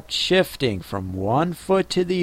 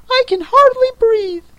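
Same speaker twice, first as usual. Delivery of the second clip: sleepy snoring dormouse; 7 dB louder than usual. Acted. Dormouse complains to Alice.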